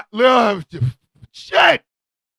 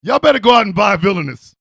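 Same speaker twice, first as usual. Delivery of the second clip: quicker and louder hype pitch; hyped shouted ad; fast shout; 3 semitones lower, 5 dB louder, faster than usual. Real, not acted. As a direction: yell the plug fast. Plugging the candle, repeated.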